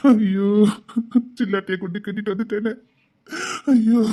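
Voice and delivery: mock wailing. Husband laments his wife.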